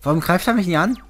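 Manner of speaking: yelling in frustration; furious gamer rant; raging gamer. Real, not acted.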